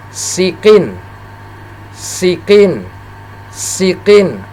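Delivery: SIKIN with a plain thin s; relaxed-mouth sin. Shown as a demonstration. Teacher contrasting sin with shin, relaxed thin s in sikin. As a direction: keep the mouth calm on the s of sikin. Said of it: "seperti tenang dia".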